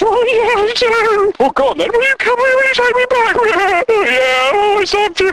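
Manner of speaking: high, lovesick put-on voice; mock contestant. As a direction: plead in a soppy squeak. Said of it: "He goes".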